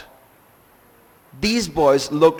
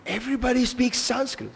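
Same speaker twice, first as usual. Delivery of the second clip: tag; 8 semitones higher than usual. Retold or imitated. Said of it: "he says".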